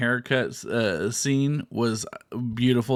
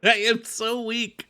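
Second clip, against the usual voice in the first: laughing; 10 semitones higher, slower than usual. Real, not acted. Laughs at friend's teasing.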